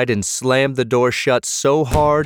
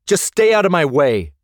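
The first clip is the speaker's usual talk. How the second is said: higher, tense angry growl; growled warning; 7 semitones higher, 3 dB louder than usual. A narrator's reading. Jeff bolts for the stairs, growling at his friend. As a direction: warn them off angrily. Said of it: "Jeff growled".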